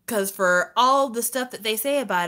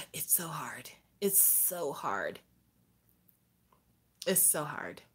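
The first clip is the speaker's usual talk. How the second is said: drained whisper; whispered lament; 6 semitones lower, 14 dB quieter than usual. Real, not acted. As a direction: breathe it out defeated.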